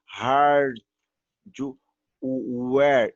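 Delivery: hard, then where, said slowly apart with the R pulled; syllable by syllable. Shown as a demonstration. Teacher breaking the word apart for students, slow. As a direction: split hardware into hard and where. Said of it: "reparem que eu puxo meio que um R".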